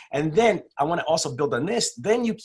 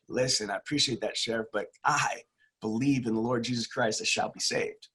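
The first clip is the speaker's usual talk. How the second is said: softer, calm, fading to breath; quiet calm refusal; 4 semitones lower, 6 dB quieter than usual. Retold or imitated. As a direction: brush the sheriff off gently. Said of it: "The guy said to the sheriff".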